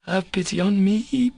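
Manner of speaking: high-pitched reproachful question rising on "me"; bitter reproach. A narrator's reading. Katya turns Alyosha's plea back on him, bitterly reproachful. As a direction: throw it back bitterly, voice climbing. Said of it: "Katya said with bitter reproach".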